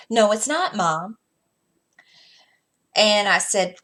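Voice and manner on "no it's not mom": put-on higher, louder sassy child's retort; mock snippy "no it's not"; kid's attitude. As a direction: mimic a huffy son talking back.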